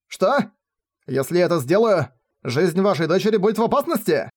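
high, stunned cry; shocked outcry. Acted. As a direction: blurt it out in shock. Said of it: "вскрикнул ошеломлённый мечник".

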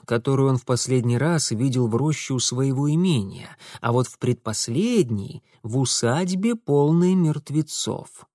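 usual speaking voice

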